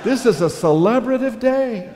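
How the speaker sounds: high, loud, laughing through it; excited reply. Retold or imitated. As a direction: answer with giddy delight. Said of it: "And I said".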